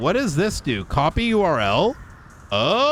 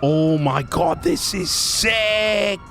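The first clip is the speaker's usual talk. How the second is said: excited; 3 semitones higher, slower than usual. Real, not acted. Excited reaction, drawn out.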